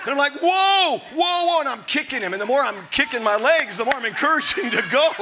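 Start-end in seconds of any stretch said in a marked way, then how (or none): 0.4-1.6 retold yelling. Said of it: "I'm yelling at this water buffalo horse".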